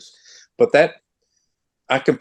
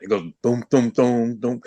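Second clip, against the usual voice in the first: bass imitation. Shown as a demonstration. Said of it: "the bass line is quite prominent".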